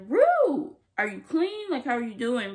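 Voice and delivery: high, concerned mom voice; mom asking Rue. Retold or imitated. Vlogger voicing Lexi's mom asking Rue if she's clean, high and concerned.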